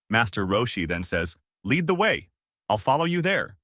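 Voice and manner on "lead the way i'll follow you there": put-on high old man voice. A narrator's reading.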